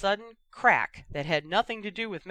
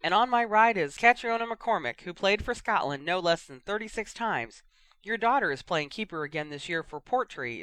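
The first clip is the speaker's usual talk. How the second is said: lively match commentator voice; sports commentator; 2 semitones higher than usual. Acted. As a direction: call it like a radio pundit. Radio Quidditch commentator.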